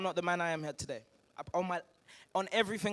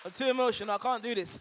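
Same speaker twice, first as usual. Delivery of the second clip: overcome with emotion; 3 semitones higher, faster than usual. Real, not acted.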